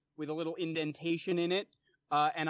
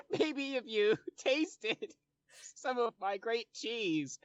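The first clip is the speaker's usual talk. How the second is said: laughing through it; 4 semitones higher, slower than usual. Acted. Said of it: "he says".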